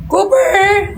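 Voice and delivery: high, slow sing-song call; calling the dog. Real, not acted. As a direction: draw the dog over with a long high call. (malambing na pagtawag sa aso)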